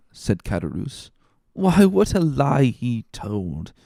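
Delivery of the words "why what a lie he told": tipsy muttering. Acted. Drunk Caderousse to Danglars about Fernand's lie, slurred. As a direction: slur it out, half amused.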